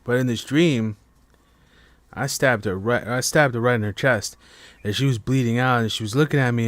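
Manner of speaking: ordinary talk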